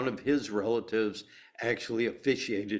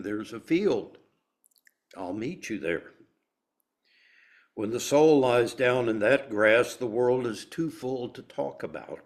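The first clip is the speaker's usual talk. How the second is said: poem reading. Acted. Reading Rumi, a favorite heart teacher, to the group, measured poem reading. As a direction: give each phrase room, pausing between images.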